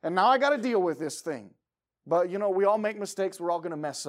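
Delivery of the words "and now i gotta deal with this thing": high, loud, regretful self-scolding; frustrated self-reproach. Retold or imitated. Father scolding himself for letting kids slide, frustrated. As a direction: kick yourself for giving in. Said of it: "I'm like".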